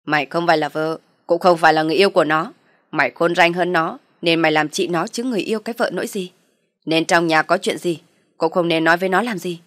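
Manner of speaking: loud scornful father-in-law; harsh lecture. Acted. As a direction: put her in her place loudly.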